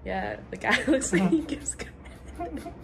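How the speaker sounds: whispered, sly and suggestive; hint something naughty under your breath. Retold or imitated. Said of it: "I thought you were like".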